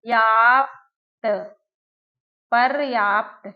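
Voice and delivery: याप्त stretched slowly, then पर्याप्त; slow spelling-out. Shown as a demonstration. Teacher showing where the र falls, slowly. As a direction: build पर्याप्त from its end. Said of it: "आपने कहा पर".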